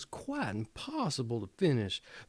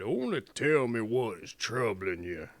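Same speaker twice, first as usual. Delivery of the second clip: put-on kindly, lowered old woman's voice; 4 semitones lower than usual. A narrator's reading. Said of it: "And she spoke so kindly".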